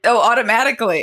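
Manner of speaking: fast sarcastic echo; mock the claim. Real, not acted.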